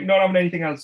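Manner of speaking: high, loud fed-up yell; imitated angry shout. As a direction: snap it out, patience gone. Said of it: "he used to scream at us".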